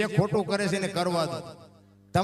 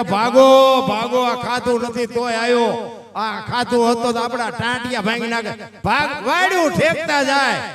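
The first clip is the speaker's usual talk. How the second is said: panicked shout; 7 dB louder than usual. Acted. Guests shout and flee.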